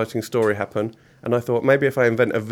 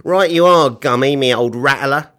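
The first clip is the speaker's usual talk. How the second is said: jolly accomplice; 3 semitones higher, 8 dB louder than usual. Acted. Billy answering Mister Gum, loud and jolly. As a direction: call it back with rough cheer. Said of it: "laughed Billy".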